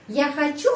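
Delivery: хочу lifted sharply to make a question; question intonation. Shown as a demonstration. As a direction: pitch jumps up on the stressed end of хочу. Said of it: "Supaya menyusun kalimat tanya".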